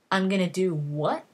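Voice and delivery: disbelieving question, sharp rise on the last word; retold incredulity. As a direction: balk at the order, pitch shooting up at the end. Logain balks at father's order, retold.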